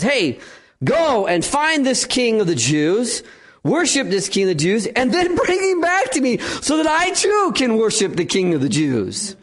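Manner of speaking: scheming Herod faking devotion; sly fake piety. Herod sending the Magi off, sly insincere sneer. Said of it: "Sure, Herod".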